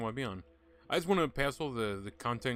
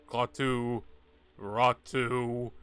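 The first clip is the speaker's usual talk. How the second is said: Bruce Campbell impression; 6 dB louder, much slower than usual. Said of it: "I'm like Bruce Campbell".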